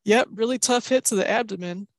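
lightly imitating a TV commentator, deadpan; broadcaster impression. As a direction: repeat it like a commentator stuck on one phrase. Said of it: "Callan kept going".

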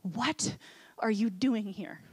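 slow, gently voiced question; mildly hushed, unhurried delivery; gentle whisper. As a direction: ask it slowly, with a touch of hush. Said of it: "hear God's gentle whisper say".

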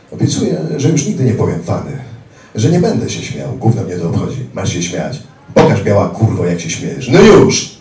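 screaming thug demanding a laugh; furious ranting thug. Retold or imitated. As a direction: berate him, building to a scream. Attacker rants, hitting him.

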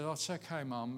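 softly soothing a parent; retold comfort, hushed and mild; gentle reassurance. Son comforting his upset mother.

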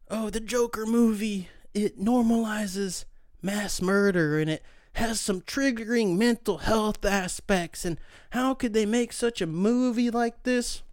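slow, whiny mock outrage; mocking headlines. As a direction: drag it out like a scandalized critic. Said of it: "a couple headlines that say".

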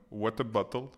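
«what a bottle» avec chaque T bien articulé; T bien prononcés. Retold or imitated. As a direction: appuyer les T de «what a bottle» à l'australienne. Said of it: "ils prononcent vraiment les T". («what a bottle» avec des T nets)

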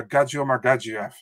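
"Gadjiev" with no R after the d; "Gadji" without any R; no R sound. Retold or imitated. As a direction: say "Gadjiev" with a plain dj. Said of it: "No, there's no R".

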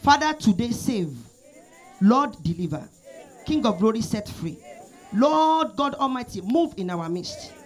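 preacher praying aloud over the church, rising and falling; fervent prayer. Real, not acted. Prayer leader praying over the congregation, fervent prayer voice. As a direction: pour it out like an earnest prayer leader.

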